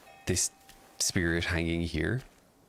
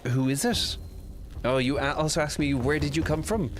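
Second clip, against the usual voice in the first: dramatic character read; 7 semitones higher than usual. Acted. Translating character line dramatically.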